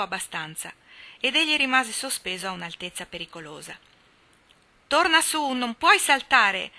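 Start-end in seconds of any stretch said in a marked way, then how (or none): 4.9-6.7 high, loud shout, the last words slow and stretched. A narrator's reading. Ned shouting up to Jack stuck on a branch, loud high warning. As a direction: yell a warning up the tree. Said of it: "gridò Ned di sotto".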